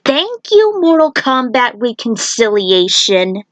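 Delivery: high, mock-grateful jab; sarcastic thanks. Kung Lao mocking the game's writing, high sarcastic thanks. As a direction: sing the thanks out, dripping irony.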